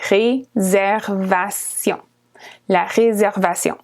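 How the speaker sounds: "Réservation" stretched out slowly; slow model word. Shown as a demonstration. Teacher repeating the word for learners, slow. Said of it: "just pronounced a little bit differently".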